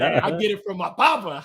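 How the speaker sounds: a proud quote said while laughing; laughing through it. Real, not acted. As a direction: let the laugh spill into the words. Guest laughing through the punchline.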